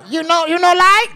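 very high mock Asian dealer accent; comic imitation of an Asian dealer. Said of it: "I got this new joke".

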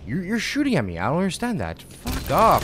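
loud, indignant complaint at the enemy; angry outburst. Real, not acted. Gamer yelling at an enemy who shoots him, angry and loud. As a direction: yell at the unseen shooter.

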